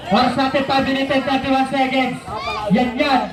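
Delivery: brisk courtside game call; live play-by-play. Acted. Announcer calling the game to the Wildcat crowd, live play-by-play. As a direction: call the plays as they happen.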